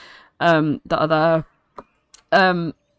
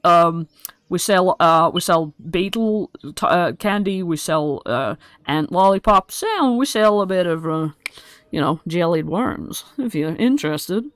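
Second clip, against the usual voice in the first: goblin Chucklehead. Acted. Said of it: "this guy comes up and is like".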